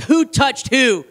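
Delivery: slow, deliberate mock interrogation; mock parental demand. Parent turning to kids in the back seat, mock stern. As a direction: draw out the question like a suspicious parent.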